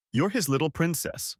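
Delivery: princess leaned on with mild scorn; stress on princess. A narrator's reading. Husband mocking his wife as daddy's princess. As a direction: hit the word princess with a sneer. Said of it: "He emphasized the word princess".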